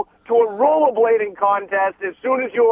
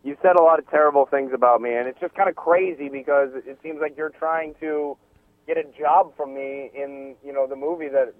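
mock Boston tough guy; 9 semitones lower, 3 dB quieter than usual. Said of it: "when I get emotional".

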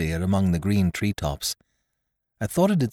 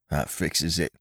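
gasped fearfully; 3 semitones lower, 5 dB quieter than usual. A narrator's reading. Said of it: "gasped one".

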